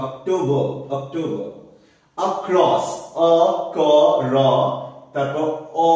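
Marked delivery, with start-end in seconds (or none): 0.1-1.5 অক্টোবর ending in a neutral "uh", no r; teacher models অক্টোবর as "ok-TOH-buh"; schwa ending. Shown as a demonstration. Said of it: "আ না, অ".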